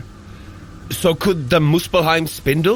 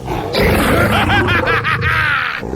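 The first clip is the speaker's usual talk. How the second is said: battle laugh; 13 semitones higher, 3 dB louder than usual. Acted. Facing the flying tiger.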